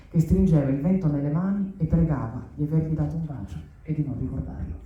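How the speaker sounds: measured literary reading voice; story reading. Acted. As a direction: read the opening aloud, steady. Reads opening of new novel.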